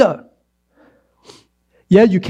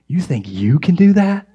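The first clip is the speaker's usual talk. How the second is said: jeering. Retold or imitated. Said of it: "They're jeering".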